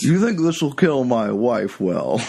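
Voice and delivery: hammed-up lockjaw accent; mock upper-class accent. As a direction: joke as the upper-class-accented gun customer.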